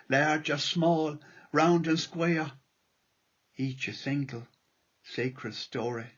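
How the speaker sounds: lilting irish storyteller. Acted. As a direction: recite the poem gently, like a storyteller. Reads his poem aloud.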